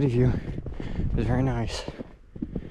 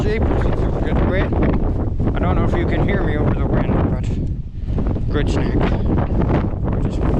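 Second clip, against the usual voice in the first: shouting over wind; 3 semitones higher, slower than usual. Real, not acted. Talking over loud wind.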